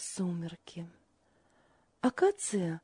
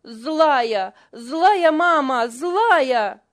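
put-on high, loud child's yell; shouting; 4 semitones higher, 10 dB louder, much slower than usual. A narrator's reading. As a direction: yell it, fighting free. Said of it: "отбивался и кричал".

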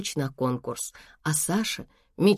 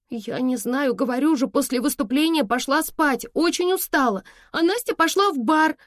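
higher, mildly raised urgent cry; shouting; 8 semitones higher than usual. Acted. Girl shouting to her mother about the night, higher and upset. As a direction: call it out upset. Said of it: "прокричала Саша".

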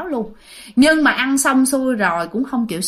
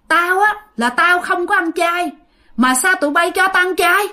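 high-pitched mock yell of complaint; imitating angry outburst; 8 semitones higher than usual. Possessed nephew protests to the guests at the memorial feast, angry outcry. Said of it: "Tự nhiên la làng lên vậy".

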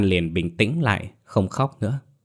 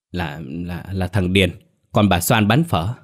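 hesitant stammer. Acted. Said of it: "ngập ngừng mãi mới đáp".

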